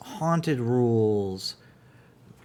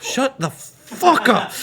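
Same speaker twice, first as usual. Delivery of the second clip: furious slow yell, pitched way up; gamer rage; 12 semitones higher, 8 dB louder, much slower than usual. Acted. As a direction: scream it out in gamer fury. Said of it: "pure, unadulterated gamer rage".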